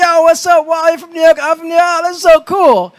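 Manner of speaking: hyped-up yo what's up greeting; excited phone greeting. Retold or imitated. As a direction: play the buddy who is thrilled to meet a fellow New Yorker. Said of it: "But I get on the phone".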